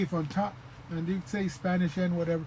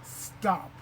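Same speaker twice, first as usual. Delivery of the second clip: slow term; much slower than usual. Shown as a demonstration. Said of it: "diacritical mark is called a".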